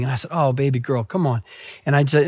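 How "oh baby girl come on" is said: low, soft comforting voice; lightly acted tender dad; soothing father. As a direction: gently console a crying child. Father comforting weeping child.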